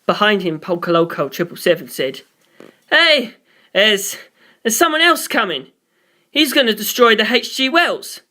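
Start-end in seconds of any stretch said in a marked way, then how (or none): 2.9-8.2 higher, urgent warning; excited higher voice. Acted. Crewman warning the others that someone is coming. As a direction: raise the pitch, sound alarmed. Polka Loco voiced high.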